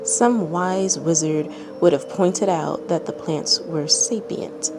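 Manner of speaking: calm, even storytelling read; measured narrator voice reading a tale; story narration. A narrator's reading. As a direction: read it like a bedtime story to listeners. Reads a fanfic story aloud.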